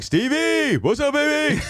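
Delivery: put-on drunk friend greeting. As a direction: call out like a drunk pal. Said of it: "and he's like".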